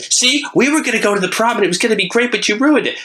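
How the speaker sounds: very high-pitched whiny-sweet monster complaint; Baraka. Acted. Jilted fanged fighter complains to his prom date, high put-on voice. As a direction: blame her in a high put-on voice. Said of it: "And Baraka comes out with his horrible fang face".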